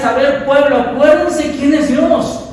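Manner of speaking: rally the people like Nehemiah; fervent preaching as Nehemiah. Acted. (Nehemías exhortando al pueblo con fervor)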